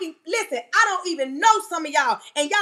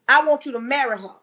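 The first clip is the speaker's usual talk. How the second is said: firm restatement, falling at the end; specific, firm; 4 semitones lower, faster than usual. Retold or imitated. God answering the doubting man, specific and firm. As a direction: lay down the instruction plainly and firmly. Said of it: "God was so specific".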